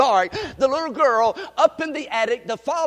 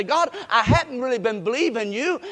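praying at the altar; 5 semitones higher than usual. Pretend. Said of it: "go to the altar and say".

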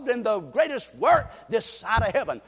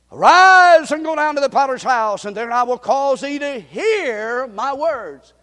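commanding voice; 3 semitones higher, 9 dB louder than usual. Acted. Voicing the Lord's command.

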